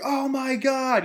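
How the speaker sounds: high, slow, stunned oh my God; excited gasp. Retold or imitated. Fan reliving the post-credit scene, stunned and thrilled. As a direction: let the awe stretch out. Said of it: "I was super excited".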